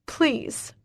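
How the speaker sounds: small, high, whispery plea; frightened, pleading whimper. A narrator's reading. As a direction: whimper it, almost voiceless. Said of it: "I whimper".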